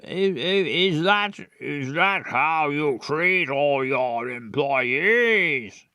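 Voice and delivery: a slow, lightly posh indignant father; posh dad. Acted. Player trying out a posh voice for the dad. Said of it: "was he very posh?".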